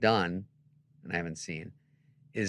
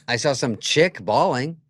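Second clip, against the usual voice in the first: mock teasing; 3 semitones higher, 8 dB louder, slower than usual. Mocking Norm's crying.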